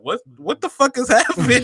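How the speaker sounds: high, giggling what-the-fuck, repeating the question; laughing disbelief. Retold or imitated. Retelling a weird cashier chat to his friend, laughing in disbelief. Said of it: "And I'm like".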